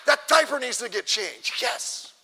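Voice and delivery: hammed-up thrill over a chore; playfully overdone enthusiasm; mock excitement. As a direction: cheer the chore as if it were thrilling. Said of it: "get excited about".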